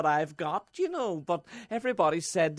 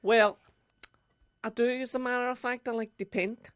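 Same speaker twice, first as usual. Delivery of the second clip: lightly voiced Dublin girl accent; a bad Dublin accent, playing a contestant. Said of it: "Very bad Dublin accent".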